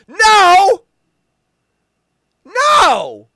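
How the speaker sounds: high, loud shouted no; loud high no at the reveal; horrified no. Real, not acted. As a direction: recoil with a yell. Reacting to the reveal.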